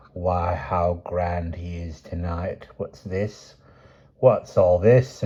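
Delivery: a hint of a slow, probing old grandmother; lightly voiced grandmother questioning her grandson; suspicious old woman. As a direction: slowly sniff out what he's been up to. Grandmother inspecting Seth.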